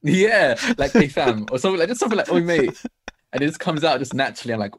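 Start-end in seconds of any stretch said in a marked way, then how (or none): 1.0-1.5 exaggerated British street greeting. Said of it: "I just say something very British". 2.3-2.8 higher, louder British "oi"; exaggerated matey British call. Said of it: "I just say something very British".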